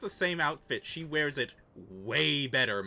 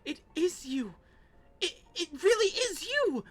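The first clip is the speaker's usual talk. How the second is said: high excited cry; 11 semitones higher than usual. Acted. NPC joyful reunion cry.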